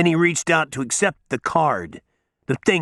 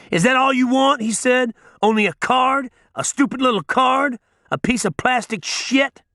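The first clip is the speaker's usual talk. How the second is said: mocking outrage; 10 semitones higher than usual. A narrator's reading. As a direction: sneer at how small his request is. Judge mocking the manager.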